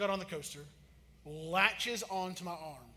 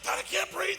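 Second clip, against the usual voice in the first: much higher, mock strained little girl; a daughter complaining the harness is too tight, in a high squeak; squeaky kid voice; 12 semitones higher, 5 dB louder than usual.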